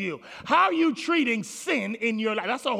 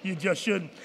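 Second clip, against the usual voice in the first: teasing neighbor; 6 semitones lower, 9 dB quieter than usual. Pretend. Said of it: "Look at your neighbor and say".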